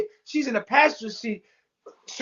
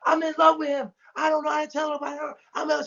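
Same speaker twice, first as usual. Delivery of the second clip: raised, exasperated mock outburst; snapping; 6 semitones higher than usual. Velvet all of a sudden confessing love, snapping. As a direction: imitate her snapping out a confession, pitched up. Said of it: "she starts snapping".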